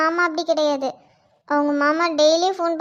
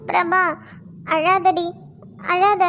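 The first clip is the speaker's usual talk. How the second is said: raised voice, pitched up, begging her to stop crying; 3 semitones higher than usual. Acted. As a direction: call out over her sobbing to calm her. Consoling a crying friend. (அழாதே என்று உரக்க ஆறுதல் சொல்லுதல்)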